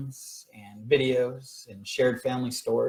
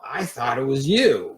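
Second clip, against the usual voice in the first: louder, slower call across the house; a retold shout, raised and drawn out; yelling; 3 semitones higher, 5 dB louder than usual. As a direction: yell it back from the other room. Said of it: "And I yell".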